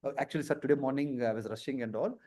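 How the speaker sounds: low, soft apologetic excuse; meek candidate explaining to an interviewer; quietly owning up to nerves; tense candidate. Acted. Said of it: "So I'm a bit tense and all".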